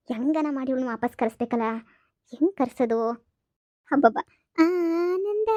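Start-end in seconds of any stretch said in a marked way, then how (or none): 3.9-5.5 high, drawn-out gloating; gleeful relief. Acted. Sister-in-law gloats alone after Paddi leaves, high and drawn out. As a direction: savour the joy like a sweet.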